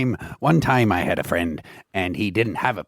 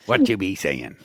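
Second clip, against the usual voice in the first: pirate slang, lightly voiced; a puzzled pirate asking. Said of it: "doing the pirate voice today".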